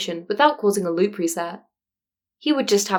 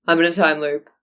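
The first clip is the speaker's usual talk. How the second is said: dull; 3 semitones lower than usual. Acted. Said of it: "Aizawa said dully".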